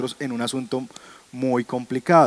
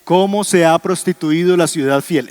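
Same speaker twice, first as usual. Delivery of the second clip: read verse aloud; 4 semitones higher, 6 dB louder than usual. Shown as a demonstration. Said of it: "Ese es el versito que está ahí".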